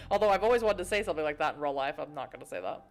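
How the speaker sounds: fast, loud talk through laughter, fading out; laughing aside. Real, not acted. Player explaining his curse, laughing then trailing off. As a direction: still laughing while explaining.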